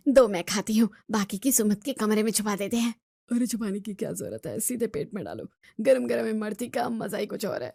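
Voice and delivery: धीमी फुसफुसाती बातचीत; छुपकर मिठाई खाते हुए दबी आवाज़; चुपके से. Acted. Elders secretly eating sweets. (बहू से छुपकर इमरती खाते सास ससुर, दबी आवाज़ में)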